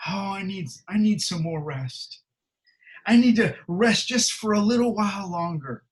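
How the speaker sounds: mock whiny lazy sluggard; lazy person. Pastor mocking the lazy sluggard, whiny pleading. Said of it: "trying to sound like one of these lazy people".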